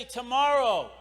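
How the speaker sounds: urgent answer. Shown as a demonstration. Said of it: "You gotta say".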